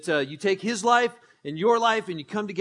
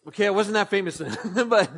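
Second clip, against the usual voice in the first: quick words with a laugh. Real, not acted. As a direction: laugh it off, a little sheepish. Congregation doesn't know the test.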